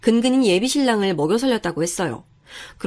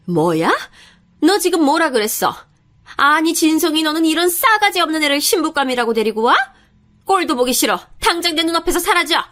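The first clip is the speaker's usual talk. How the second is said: higher-pitched, furious scolding; outraged mother-in-law; 6 semitones higher, 3 dB louder than usual. Acted. Mother throwing out her son's fiancée, outraged. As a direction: order the girl out in indignation.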